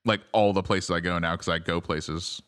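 dry, understated sarcasm; deadpan sarcastic boast, slowing at the end. Real, not acted.

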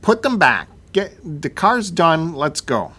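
mildly exasperated, starting high and dropping; impatient order. Acted. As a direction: order them to wrap it up. Acted curt order to the mechanic.

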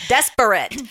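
loud mock alarm word; alarm announcement. Phone alarm shaming a drunk texter, mock announcement. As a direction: blare it like a warning from a gadget. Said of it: "like, an alarm that goes off".

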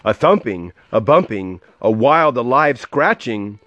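lively, rhythmic read-aloud; storybook voice with a measured bounce; story narration. A narrator's reading. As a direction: read a rhyming picture book to a child.

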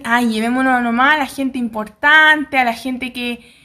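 slow, lightly voiced snooty official; mock the elite choosing who gets saved; snobbish elitist. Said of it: "o así típico elitista".

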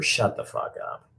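slow, whispered brush-off; annoyed under-breath mutter. Real, not acted. Streamer mutters back at a heckling commenter, slow and under breath. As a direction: mutter it to the troll, half to yourself.

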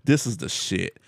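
laughing as he repeats it; laughing through it. Retold or imitated. Husband retelling his vacuum joy, laughing. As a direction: giggle the words out, delighted. Laughing while quoting himself.

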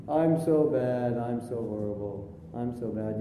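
low, droning misery after a drawn-out start; mock self-pity. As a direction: moan about yourself, sinking low. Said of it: "so I feel bad".

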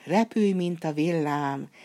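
a slow, ringing magic call, words drawn out; slow called spell. Acted. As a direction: cast the spell steadily, calling it out slowly. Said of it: "így kiáltott".

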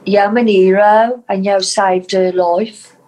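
Black Country accent demo. Shown as a demonstration. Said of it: "What, in Black Country?".

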